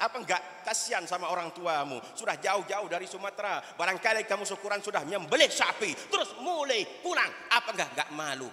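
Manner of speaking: a hint of a chiding kiai; lightly voiced kiai. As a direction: shame him gently like a teacher. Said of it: "kata kiai saya".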